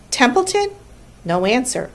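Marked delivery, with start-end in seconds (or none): 0.1-0.7 high, rising, questioning call; calling out a name. A narrator's reading. Charlotte calls the absent rat at roll call, high questioning. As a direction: call for someone missing, pitched up.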